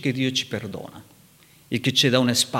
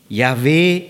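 Yahweh called out loud and strong; shouted; 6 dB louder than usual. A narrator's reading. God crying out his name before Moses, a loud call. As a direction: cry the name out, Yahweh, like a proclamation. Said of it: "e gridò".

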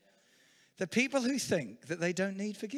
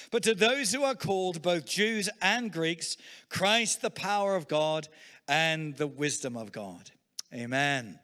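slow, raised pulpit recitation; solemn scripture proclamation, drawn out; preaching scripture; 3 dB louder, slower than usual. Acted. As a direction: proclaim the verse slowly from the pulpit.

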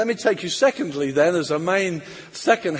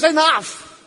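firm enough; 10 semitones higher, 7 dB louder than usual. Acted. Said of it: "Samuel cuts through it all and says".

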